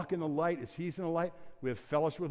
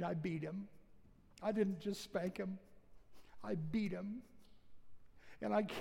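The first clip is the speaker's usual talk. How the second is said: retold weeping; 4 dB quieter than usual. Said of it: "he just wept even more".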